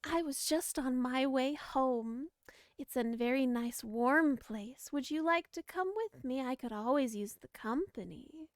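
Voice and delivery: lightly voiced sweet granny; gentle old granny invitation. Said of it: "in this very, very sweet old granny voice".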